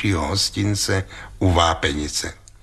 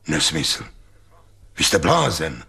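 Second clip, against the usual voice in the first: lower, mildly grumbled dismissal; a touch of a low, booming grumble; grumbling drone; 5 semitones lower than usual. A narrator's reading. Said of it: "hučel pan doktor Link".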